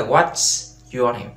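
slow, careful what's your name; slow model phrase. Shown as a demonstration. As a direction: say it slowly for learners. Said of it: "Đấy, what's your name?". (đọc chậm từng chữ cho học viên)

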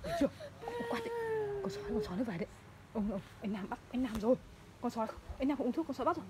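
soft hushed warning of the wolf; spooky threat. Real, not acted. Mother frightening her child with a wolf story, hushed. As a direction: hush it like a scary tale.

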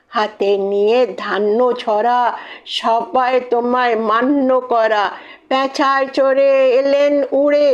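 lilting rhymed-verse recital; rhythmic, playful festival verse; poem recitation. Acted. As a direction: recite in measured sing-song couplets. Recites poem about the gods.

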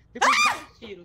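loud yell. Real, not acted. Loud laugh-yell retelling shots.

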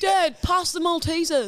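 put-on high, slow child voice; drawn-out, high request to Dad; deflecting kid. Acting child changing the subject.

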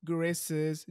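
Gurases as another garbled take on Gurasis; name mispronounced. Retold or imitated. Host listing mangled versions of their name, Gurases as "guh-RESS-es". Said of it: "always a pronunciation which goes from".

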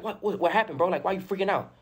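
high-pitched, stammered confusion; baffled retelling. Retold or imitated. Wounded man questioning his crying friend, baffled. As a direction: retell a bewildered reaction to someone's panic.

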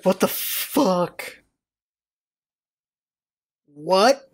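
slow, low, dumbfounded; stunned disbelief. Retold or imitated. Bystander blue-screening at pedestrians' answer, stunned and slow. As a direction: pause as if the brain froze. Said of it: "I blue screened".

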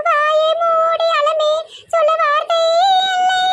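slow, drawn-out lovelorn poem; slow dreamy recital. Acted. Heartbroken girl recites her love poem to the villagers, slowly.

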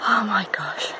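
low, soft, spent gasp; exhausted. Real, not acted. Climber near the gate, exhausted. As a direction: let it out with no puff left.

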